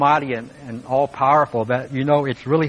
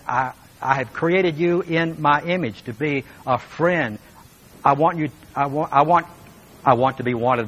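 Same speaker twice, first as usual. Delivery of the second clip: pleading longing. Retold or imitated. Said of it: "And he says".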